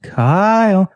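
high, drawn-out name call; imitated needling little sister; sister's nagging call. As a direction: pester with a long, high call. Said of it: "it was always something like this".

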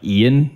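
"Ian" for Ann, vowel shifted to EE-uhn; Michigan vowel shift. Retold or imitated. Imitating Michigan people saying Ann, vowel shift. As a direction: stretch Ann toward "Ian". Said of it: "it'll sound kinda like Ian".

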